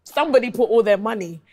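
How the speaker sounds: high, loud disbelief; amazed laughing outrage; incredulous. Real, not acted. Incredulous retelling of arson testimony.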